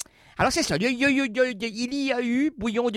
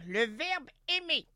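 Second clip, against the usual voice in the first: whisper; 4 semitones higher, 6 dB quieter than usual. Acted. Whispered aside.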